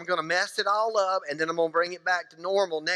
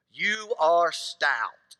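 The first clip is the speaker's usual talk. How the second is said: slow deliberate quote; much slower than usual. Retold or imitated. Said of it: "If a man says to a woman".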